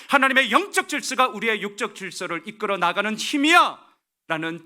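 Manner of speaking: loud, high-pitched proclamation; emphatic pulpit declaration; forceful preaching. Real, not acted. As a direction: preach it at full force, driving each phrase.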